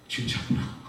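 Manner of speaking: breathless whisper of disbelief; soft whisper, sinking in slowly; awed whisper. Retold or imitated. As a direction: whisper it to yourself. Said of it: "진짜인지 아닌지 감이 안 잡히더라고".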